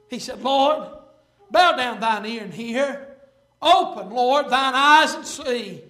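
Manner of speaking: measured King James reading; solemn reading of the prayer; scripture reading. Acted. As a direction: read the prayer with weight. Reads Hezekiah's prayer aloud.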